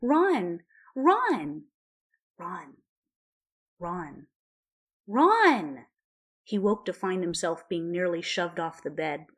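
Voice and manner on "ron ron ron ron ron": shouting to wake. A narrator's reading. Hermione waking Ron by shouting.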